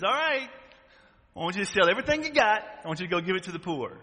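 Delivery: God hurrying you to sell everything. Pretend. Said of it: "God came to you and says".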